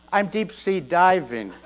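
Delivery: quiet, slow, dry sarcasm; deadpan the obvious joke; sarcastic. Retold or imitated. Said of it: "I say".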